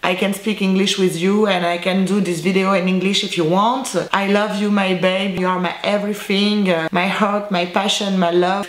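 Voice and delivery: English with a French accent. Shown as a demonstration. Showing fans her English, French-accented. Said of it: "On soulignera l'accent anglais".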